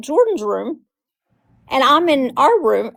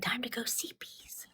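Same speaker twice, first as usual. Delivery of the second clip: hushed bedtime whisper, imitating him; soft, voiceless retold whisper; 2 semitones higher, 4 dB quieter than usual. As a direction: whisper it as if settling a toddler. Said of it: "he's, like, whispering".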